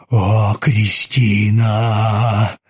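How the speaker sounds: very slow whining ghost. Acted. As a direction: whine the name out long. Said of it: "ныл он".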